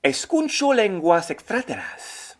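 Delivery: slow Spanish with a French accent; French learner repeating. Shown as a demonstration. Host repeats the Spanish, French-accented. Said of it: "écouter des langues".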